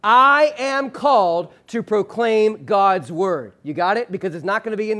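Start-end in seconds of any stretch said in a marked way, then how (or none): 0.0-3.5 slow, every word given its own weight; a deliberate congregational read-aloud pace; slow unison recitation. Shown as a demonstration. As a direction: lead the room through it word by word. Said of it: "I'm gonna invite you to say it with me".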